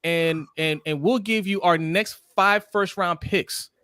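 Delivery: over-eager GM voice, slowed on the names; mock GM. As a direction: ham up a desperate general manager. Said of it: "Sometimes the G M says".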